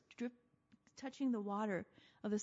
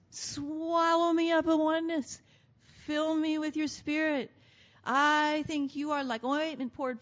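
higher, yearning prayer to the beloved; longing plea; 5 semitones higher, 3 dB louder than usual. Retold or imitated. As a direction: reach upward with longing. Bride's longing prayer, voiced.

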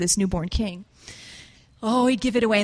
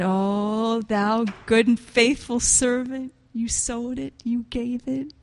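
gentle voice of the Lord; slower than usual. Acted. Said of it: "And the Lord said".

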